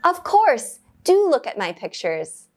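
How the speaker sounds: high, bright "Of course"; eager yes. Acted. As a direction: welcome the request gladly.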